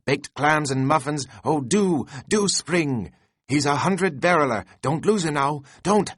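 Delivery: high, loud, giddy pleading to the rowers; Flask excitedly urging. A narrator's reading. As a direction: beg the crew to pull, hopping with glee.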